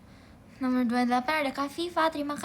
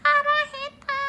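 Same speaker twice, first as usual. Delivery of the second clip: high, loud squeaky cartoon Japanese; Momonga voice; 10 dB louder than usual. Streamer quotes how Momonga says it, squeaky voice. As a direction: squeak it like a cute anime creature. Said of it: "Momonga gitu ngomongnya".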